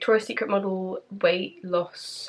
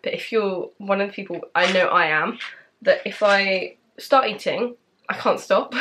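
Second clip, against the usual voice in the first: talking while chewing gum; words around a wad of gum. Real, not acted. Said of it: "I'm actually chewing gum right now".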